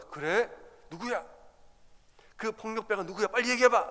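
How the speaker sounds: a teacher jolted by the news, pressing hard; startled teacher. Retold or imitated. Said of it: "깜짝 놀라 물어봐요".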